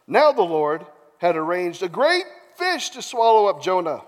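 animated Bible storytelling; theatrical narrator; dramatic scripture reading. A narrator's reading. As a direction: tell it with emphatic key words. Reads scripture aloud dramatically.

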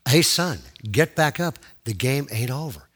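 firm call in full voice, easing at the end; voice a little clearer. Retold or imitated. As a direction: urge him up, audibly but calmly. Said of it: "It got a little".

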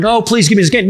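mock whining child begging for candy; whiny kid. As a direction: beg like a kid at the checkout, lightly played. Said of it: "like a little kid groans for candy".

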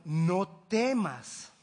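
drawn-out, tender "No temas"; soothing command; slow reassurance. Acted. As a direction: stretch it out like a comforting word. God tells them not to fear.

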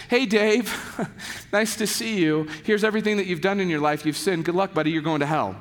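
breezy, fast rundown of sins; mock condemning lecture. Shown as a demonstration. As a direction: rattle off the verdict like a casual greeting. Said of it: "the lectures would probably look a little bit like this".

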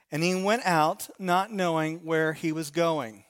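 measured, solemn reading of the verse; scripture reading. Acted. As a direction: read the passage with weight. Reads scripture aloud.

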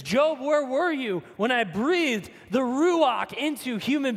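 building, insistent questions; God's repeated challenge. Retold or imitated. God pressing Job with insistent questions, building. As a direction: press Job with each where were you. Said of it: "This can be summed up as this".

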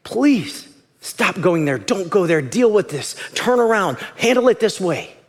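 loving plea. Acted. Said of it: "being the voice of God".

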